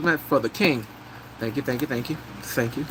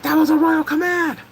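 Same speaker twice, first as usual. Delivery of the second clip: high, louder commanding voice; stern king; 13 semitones higher, 4 dB louder than usual. Retold or imitated. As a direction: declare it like a royal decree. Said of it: "And he's like".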